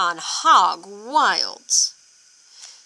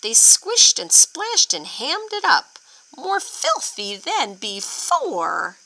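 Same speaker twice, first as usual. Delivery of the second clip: put-on lively read-aloud for kids; storybook reading; 2 semitones higher than usual. A narrator's reading. Teacher reading the children a story, lively. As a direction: read it bouncy, like to a class.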